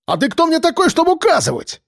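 визгливо, гораздо выше; сорвись на визг; взвизгнул. A narrator's reading. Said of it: "взвизгнул мажорчик". (мажорчик визжит на деда)

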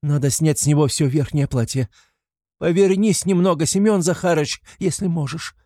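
высокий громкий окрик; торопливо кричи раненому мужу; крикнула. A narrator's reading. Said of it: "крикнула она ему". (жена кричит умирающему мужу, высоко и громко)

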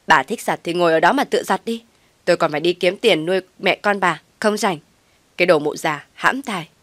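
loud, spiteful insults; loud cursing. Acted. Daughter-in-law curses mother-in-law before storming off, loud and spiteful. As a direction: spit the insults as she leaves. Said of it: "lớn giọng chửi".

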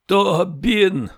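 high, strained mother's call; strangled, tense cry. A narrator's reading. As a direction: cry out to your son through a tight throat. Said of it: "закричала мать сдавленным, напряжённым голосом".

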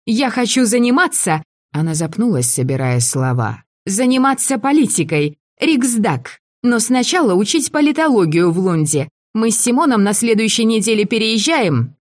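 высоко, громко, заплетаясь; как захмелевшая девушка; пьяная девушка. A narrator's reading. Пьяная Мари говорит выше. (пьяная Мари говорит о политике, высоким голосом)

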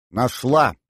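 brief excited call; exclamation. Acted. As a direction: exclaim over a sudden find. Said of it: "воскликнула Рита".

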